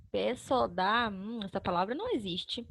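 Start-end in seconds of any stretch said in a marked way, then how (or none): 0.1-1.1 joined-up, lower test reading; syllables run together. Shown as a demonstration. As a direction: lower and quicker, blending the syllables. Same syllables tested as a word.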